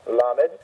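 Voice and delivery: "Lamed" stressed on LA; stress on first syllable. Shown as a demonstration. Teacher modelling the letter name, LA-med. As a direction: lean on the start of "Lamed". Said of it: "accent on the first syllable".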